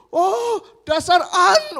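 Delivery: high, slow, through laughter; laughing curse. Retold or imitated. Pastor laughing at his own near-insult to the congregant.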